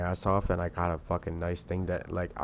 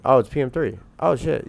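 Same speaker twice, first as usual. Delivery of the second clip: real surprise; 6 semitones higher, 8 dB louder than usual. Real, not acted. Sudden realisation reading chat.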